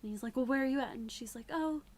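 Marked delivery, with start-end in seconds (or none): 0.4-0.9 loud alarmed question down the phone; panicked shout. Retold or imitated. 1.5-1.8 high, loud breezy oh; playing it off. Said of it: "she's trying to play it off".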